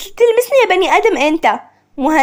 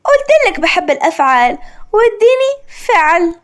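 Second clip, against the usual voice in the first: proud. Acted. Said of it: "عشق بفخر".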